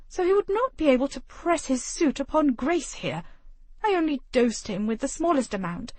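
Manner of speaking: high, prim and disdainful; clipped superiority, lips pinched tight; haughty lady. Acted. The haughty mother justifies herself to her husband, prim and high.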